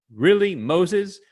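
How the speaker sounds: hammed-up complaint to Moses, fading at the end; sarcastic. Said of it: "It's a very sarcastic comment".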